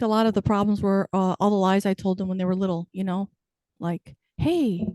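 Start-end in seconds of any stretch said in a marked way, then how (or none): 4.4-4.9 lightly acted higher-pitched parent voice; parent's white lie. Parent fibbing to little kids, pitched-up mock reassurance. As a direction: lift the pitch as if to small children.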